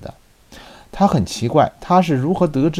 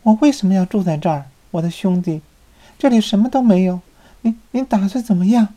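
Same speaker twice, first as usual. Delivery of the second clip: high, fast, panicky pleading; frightened; 8 semitones higher, faster than usual. A narrator's reading. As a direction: voice rising in fear. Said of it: "米莱迪语带恐惧".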